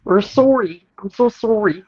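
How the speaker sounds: high, put-on Canadian apology; mock apologetic. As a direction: play up the sorry Canadian.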